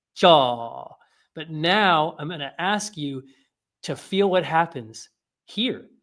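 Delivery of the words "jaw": "jaw" stretched out long, raised and drawn out. Letting the one-syllable word elongate: drawn-out 'jaw'. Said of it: "drawing out the syllable".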